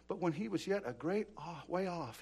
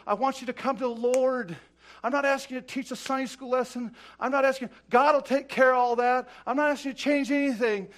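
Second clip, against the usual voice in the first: raised, loud revival exhortation; impassioned preaching appeal; 3 semitones higher, 8 dB louder than usual. Real, not acted. Preacher urging people to the Lord, loud and insistent. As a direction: push each plea out at full voice.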